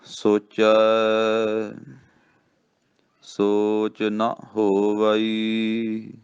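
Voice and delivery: very slow, drawn-out chanting of the line with long pauses; slow scripture recitation. Shown as a demonstration. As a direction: intone each word of the verse deliberately. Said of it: "ਇਸ ਤੋਂ ਅੱਗੇ ਪੜ੍ਹਦੇ ਹਾਂ".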